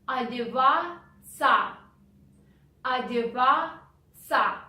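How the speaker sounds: Одеваться with the O said as A, the T silent and ться as ца; careful Одеваться. Shown as a demonstration. Teacher showing learners the spoken form. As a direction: say Одеваться as adevatsa, no T. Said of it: "Here we pronounce ц".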